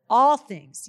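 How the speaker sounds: all things called out at full voice; proclaiming loudly. Real, not acted. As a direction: shout all things as a triumphant declaration. Declaring scripture to congregation.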